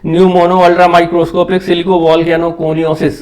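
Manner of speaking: pneumono ultra microscopic silico volcano coniosis spelled out slowly, each part separate; slow careful pronunciation. Shown as a demonstration. Teacher showing the longest medical word to students, slowly sounded out. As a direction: break the long word into slow chunks. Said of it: "that is".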